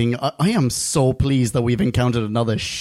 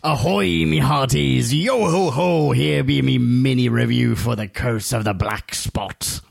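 put-on old sailor. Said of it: "he goes".

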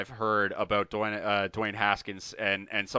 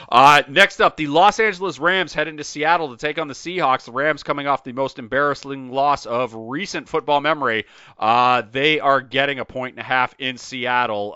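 louder, projected host read; sports show matchup intro; 3 semitones higher, 7 dB louder than usual. Real, not acted. Host hands the next matchup to Bill, projected intro. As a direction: announce the next game with punch.

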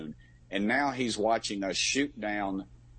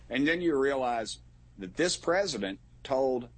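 rising heat, pitched up, pressing hard; getting worked up; 5 semitones higher than usual. Real, not acted. Congressman venting to the host about the balloon, worked up. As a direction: let the indignation push the voice higher. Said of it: "I'm getting up, uh, worked up".

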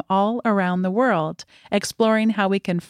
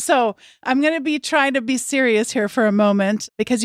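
laughing; 4 semitones higher than usual. Real, not acted. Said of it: "laughs while speaking".

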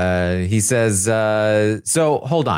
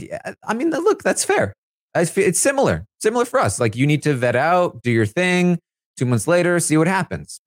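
much higher mock voice for Blue; imitating Blue; 5 semitones higher than usual. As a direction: lift the whole quote way up to play her. Retelling Blue answering Jared.

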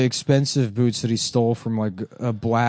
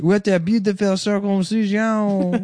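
mock craftsman voice; 9 semitones higher than usual.

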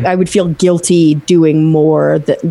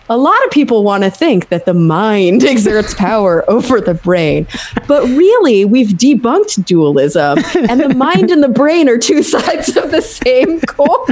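actual full quote; 4 semitones higher than usual. Retold or imitated. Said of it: "me going like this".

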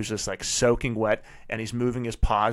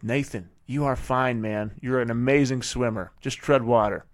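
calm reassurance. Retold or imitated. Dad calmly reassures his son treading water, steady. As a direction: settle him with unhurried calm. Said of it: "I'm completely calm".

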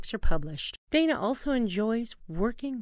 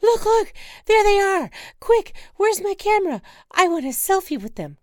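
much higher, louder, overjoyed squealing; thrilled shriek; 13 semitones higher, 10 dB louder than usual. Acted. Wife spotting penguins, squealing with delight.

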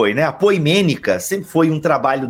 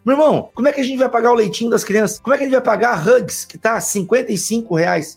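mock exasperated friend; 7 semitones higher than usual. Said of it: "Eu falei".

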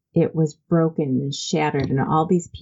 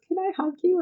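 mom asking gently; faster than usual. Retold or imitated. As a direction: ask it tenderly, almost tearful. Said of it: "She goes".

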